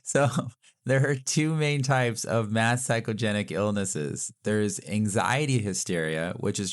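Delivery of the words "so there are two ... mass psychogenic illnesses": put-on lightly done Boston accent. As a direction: play it as a Boston local. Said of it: "your Boston accents worse than mine".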